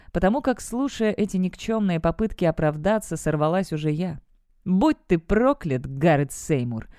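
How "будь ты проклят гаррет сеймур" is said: slow, mild cried-out curse; understated furious curse at her father; cursing cry. Acted. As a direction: lay the curse on him slowly. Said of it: "закричала".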